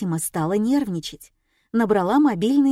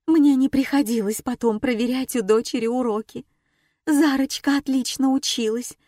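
Fatima's voice, higher throughout; a distraught mother recalling her girl; lightly voiced worried older woman; anxious mother; 5 semitones higher, 3 dB louder than usual. A narrator's reading. Fatima's long anxious reply.

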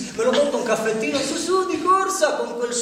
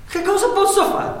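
anguished cry; 10 semitones higher than usual. Acted. Desperate repeated question. (grido angosciato)

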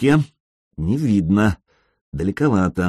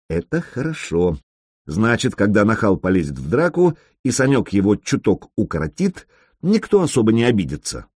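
ordinary delivery, nothing marked

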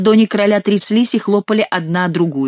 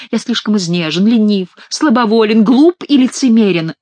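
building, louder mock confession; repenting as king; 3 semitones higher, 5 dB louder than usual. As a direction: list the sins with mounting put-on remorse. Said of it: "каялся Шико от имени короля".

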